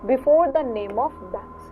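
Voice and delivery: very slow, every word separated; slow dictation. Shown as a demonstration. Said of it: "teacher dictates rule slowly".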